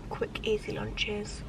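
breathy unvoiced whisper. Real, not acted. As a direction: keep it hushed among people. Whispering in public.

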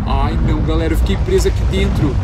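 loud, panicked cries of alarm; panicking gamer. Real, not acted. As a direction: panic at being locked in. Trapped in the room, panicking.

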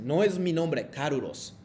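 Carlos said as kaɾuɾos, Japanese style. Shown as a demonstration. Teacher demonstrating Japanese-style Carlos to students. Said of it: "no es Carlos, sino, eh, Carlos-san".

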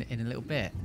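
usual speaking voice

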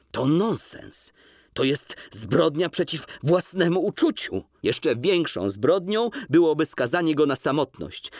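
heightened woman's voice, insistent; Łucja's voice. Acted. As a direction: refuse him, firm and pained. Łucja's lines read in character.

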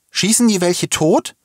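put-on high, slow boy's call; calling back. A narrator's reading. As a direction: call the question back over your shoulder. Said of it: "rief Uli über die Schulter zurück".

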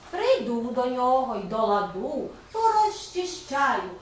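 slow, measured verse with pauses between lines; poem recitation. Acted. Teacher recites a spring poem to pupils, slow expressive verse. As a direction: recite a children's poem slowly, lifting and dropping the melody. А тепер послухайте віршик.

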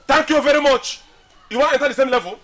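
indignant, forceful retort; angry comeback. Acted. Sarcastic comeback in quarrel.

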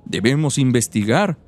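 lightly voiced little old woman. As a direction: read it as a frail old lady. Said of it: "¿Qué les parece mi voz de viejita?". (voz de viejita)

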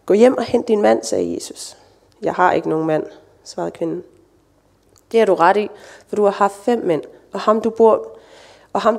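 steady, measured Bible reading with quoted voices lightly marked; scripture reading. Acted. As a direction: read the story aloud to the congregation. Reading the Bible passage aloud. (oplæsning af bibeltekst for menigheden)

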